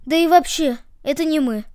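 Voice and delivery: mildly whining excuse; plaintive. Acted. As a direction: plead that it was someone else. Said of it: "жалобно простонали ноги". (жалобно)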